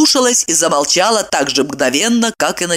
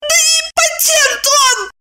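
much higher squealing retort; shrieked. A narrator's reading. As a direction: squeal it out, slow. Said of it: "взвизгнула Майя".

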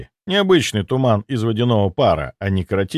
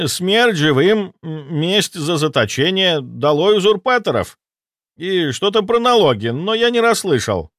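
panicked ghost soldier; 8 semitones higher than usual. Acted. Ghost soldier reporting the dead army, high panicked voice. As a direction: babble the news in alarm.

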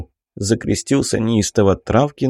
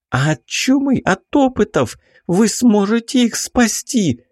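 put-on high, pleading young lady's voice; distressed baroness; 12 semitones higher than usual. A narrator's reading. Baroness begs the investigator to save her cousin, high and pleading.

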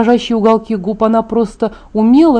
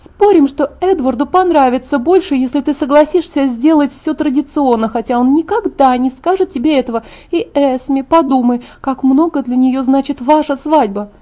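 put-on raised-pitch young woman's character voice; persuasive Alice; 4 semitones higher than usual. Alice talks her friend into a wedding, persuasive. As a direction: coax a friend with a higher voice.

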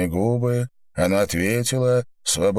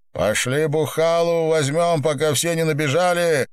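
higher, fast shout into an ear; shouting over music; 9 semitones higher than usual. Acted. Lapin shouting in Ilona's ear over the concert, excited. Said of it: "закричал он ей в ухо".

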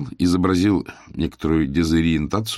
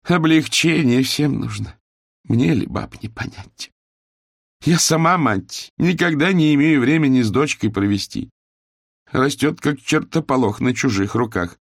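put-on higher, complaining older woman feigning weakness; ailing mistress; 8 semitones higher than usual. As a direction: whine like a sick hostess. Owner voiced, suffering.

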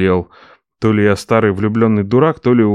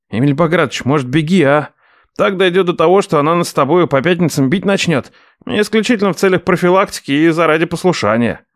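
higher teasing nephew; 6 semitones higher than usual. Acted. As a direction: needle the boss.

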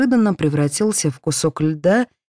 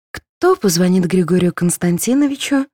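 ordinary delivery

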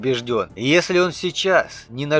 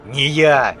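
spat out; 4 dB louder than usual. Acted. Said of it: "выплюнул Саксон".

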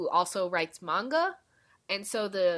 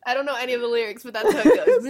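nasal voice; 5 semitones higher, 10 dB louder, faster than usual. Real, not acted. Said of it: "my nasal voice right now".

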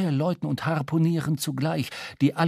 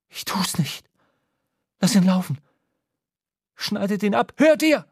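rising command; 4 semitones higher, 4 dB louder than usual. A narrator's reading. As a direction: snap from hesitation into barked orders. Shaken captain orders release.

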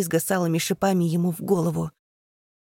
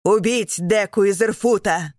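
loud raging order to kill; furious command; 3 semitones higher, 5 dB louder than usual. Acted. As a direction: spit out the death sentence in fury. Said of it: "кричит он".

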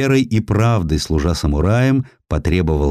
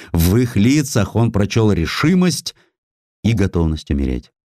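ordinary delivery, nothing marked

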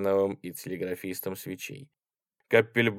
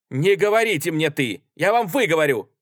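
loud, high correction; indignant rebuke; 8 semitones higher, 7 dB louder than usual. A narrator's reading. Artskhanov rebukes the soldier's familiar address, indignant. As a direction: insist hotly on respect.

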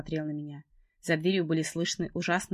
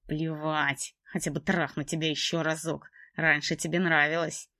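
sneering man voice; slower than usual. Acted. Trevor sneers at her.

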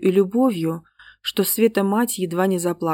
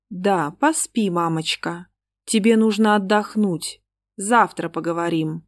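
cold eerie voice. Acted. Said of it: "таким холодным, кошмарным голосом".

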